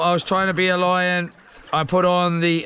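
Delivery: ordinary talk, nothing marked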